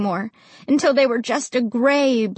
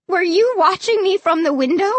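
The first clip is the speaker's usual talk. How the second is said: high, loud frightened cry; cried out; 7 semitones higher, 3 dB louder than usual. A narrator's reading. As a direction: cry out in fear. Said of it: "I cried".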